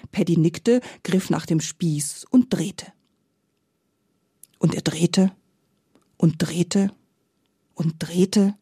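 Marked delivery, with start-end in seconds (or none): 4.6-8.5 whispered, drawn out, each turn slower; hushed repetition. A narrator's reading. Narrator whispering to listeners as Paddy keeps turning. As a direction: whisper it like time is dragging on. Turning the spit, time dragging.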